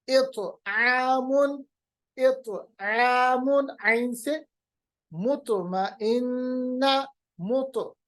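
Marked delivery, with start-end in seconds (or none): 0.1-3.8 इतआमुन very slow, echoed तो; slow qalqala demo. Shown as a demonstration. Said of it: "कलकला करेंगे". 5.1-6.9 मुतमइन्ना drawn out, echoed तो; slow qalqala demo. Shown as a demonstration. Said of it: "तो की आवाज वापस लेगा".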